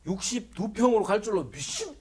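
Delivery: exaggerated believer's proclamation; mock declaration of faith. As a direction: proclaim it with hammed-up conviction, cut short. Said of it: "이게 신앙생활이라고 생각하지 마시라".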